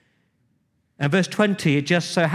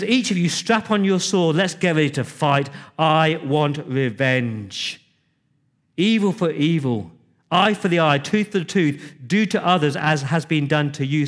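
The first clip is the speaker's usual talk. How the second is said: furious David. Retold or imitated. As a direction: preach David's rage like a battle cry. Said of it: "Now, now David is furious".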